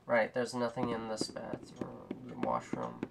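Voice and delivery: soft whispered aside. Real, not acted. Player whispers while sneaking through a dark restroom. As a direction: whisper as if someone might hear.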